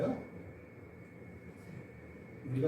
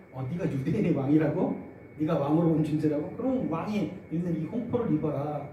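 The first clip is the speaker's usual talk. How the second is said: sneering mockery. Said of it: "희죽희죽대고 조롱합니다".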